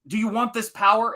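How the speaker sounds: high, mock stern kung fu master; Pai Mei voice. Pai Mei taunting Beatrix in training, high mock master voice. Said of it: "And he goes".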